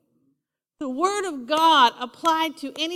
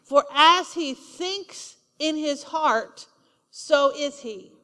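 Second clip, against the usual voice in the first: slow scripture reading; slower than usual. Shown as a demonstration. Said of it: "It says".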